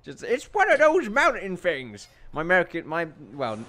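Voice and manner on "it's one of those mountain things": put-on slow, higher old-man voice. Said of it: "my old man voice is not exactly trained".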